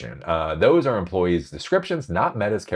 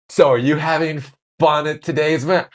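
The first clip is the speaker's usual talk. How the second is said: upbeat manager voice; 8 semitones higher, 4 dB louder than usual. Retold or imitated. Acted manager asking employees.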